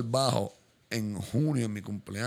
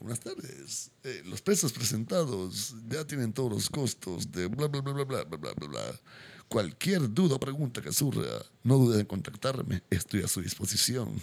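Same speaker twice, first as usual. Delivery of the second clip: formal sales email; slower than usual. Retold or imitated. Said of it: "es como que".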